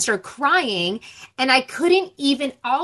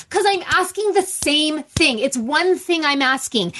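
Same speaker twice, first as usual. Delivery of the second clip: mildly exasperated parent repeating themselves; worked-up, insistent retelling of a scolding; retold frustration; 2 semitones higher than usual. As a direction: press each point, fed up but contained. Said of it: "I'm getting really frustrated".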